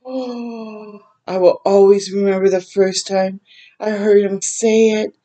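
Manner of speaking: real tears welling as she reads; moved reader fighting tears; tearful. Real, not acted.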